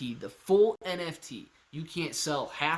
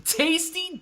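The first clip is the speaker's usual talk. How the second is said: savoring; 12 semitones higher, 4 dB louder than usual. Real, not acted. Savoring reading donation.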